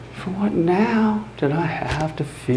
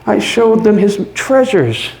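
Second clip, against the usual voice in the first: much higher and louder, gleeful; manic triumph; 7 semitones higher, 4 dB louder than usual. Acted. Narrator showing police the house, manic and triumphant. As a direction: crow it out, giddy with confidence.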